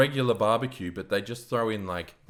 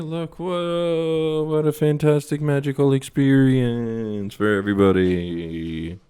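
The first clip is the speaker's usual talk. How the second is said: mock amazement; 4 semitones higher, 6 dB louder than usual. Mock marvel at mic sweep.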